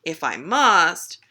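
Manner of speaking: slow, grudging consent; drawn-out reluctant cat voice. Acted. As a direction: give in heavily, leaning on each word. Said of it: "the cat is a little more reluctant".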